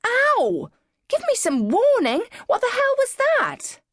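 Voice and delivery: high, loud pained yelp of protest; cry out in pain. Retold or imitated. Patient yelling at the doctor after sudden pain, high and loud. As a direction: shriek it at the doctor who jabbed you. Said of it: "cry out".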